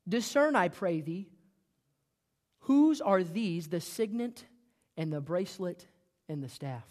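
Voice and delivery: slow, drawn-out mock innocence; sarcastic. Tamar taunting Judah with his pledges, slow and sarcastic. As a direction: lay the sarcasm on, slowly. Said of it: "I want you to hear the sarcasm".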